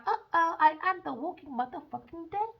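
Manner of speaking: a light mock-scared voice for the liars; hammed-up uh-oh; mock panic. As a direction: imitate them realizing doom. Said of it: "Now they're thinking about".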